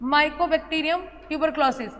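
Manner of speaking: very slow, each syllable spelled out; "Mycobacterium tuberculosis" drawn out word by word; slow dictation. Shown as a demonstration. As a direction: read it out slowly for notes. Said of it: "यहाँ पर ध्यान रखना".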